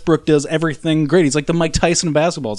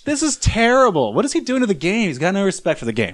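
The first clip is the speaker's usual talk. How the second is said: put-on high, indignant grumpy old man; 10 semitones higher, 3 dB louder than usual. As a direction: rant at the TV like a cranky old man. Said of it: "that's your old man voice?".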